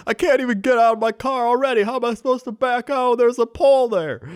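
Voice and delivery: high, loud baffled mock voice; confused driver. Retelling the confused driver's reply, high exasperated mock voice. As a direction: play the flustered driver, exasperated. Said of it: "he's like".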